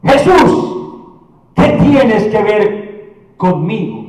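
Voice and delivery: preacher voicing a demon's cry; acted loud cry. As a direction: cry out in mild mock confrontation. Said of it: "Gritando a gran voz".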